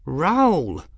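high-voiced hissed reprimand; hissed in cat. A narrator's reading. Young woman restraining her furious cat, hissing. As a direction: check the cat with a high, tense call. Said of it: "Bridget hissed in cat".

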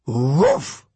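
a friendly, rising woof; happy dog bark. A narrator's reading. Dog barks.

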